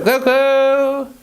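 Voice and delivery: high call across the room for the dog; a pet owner calling Coco over. Real, not acted. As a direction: sing out the dog's name to fetch her.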